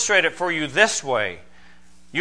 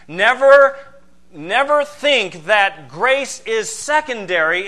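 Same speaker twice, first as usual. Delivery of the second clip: emphatic never; 3 semitones higher, 5 dB louder than usual. Real, not acted. Preacher warns congregation.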